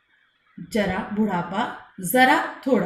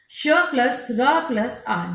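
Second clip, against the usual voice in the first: "श plus र plus आ" built up slowly, each part spaced; slow spelling; much slower than usual. Shown as a demonstration. Teacher builds the conjunct "श plus र plus आ" slowly for pupils. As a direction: break "श plus र plus आ" into parts slowly. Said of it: "श्रम वाला श्र".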